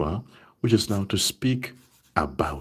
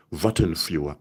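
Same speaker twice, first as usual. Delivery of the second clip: "warten für" said louder as the mistake to avoid; wrong form, louder; 2 semitones lower than usual. Shown as a demonstration. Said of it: "Don't say".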